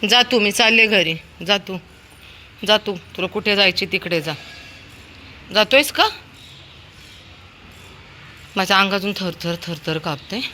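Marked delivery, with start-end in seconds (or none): 0.0-6.1 loud, high commands to get up and come; calling dog home. Real, not acted. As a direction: order the dog home, getting impatient. Owner orders dog home.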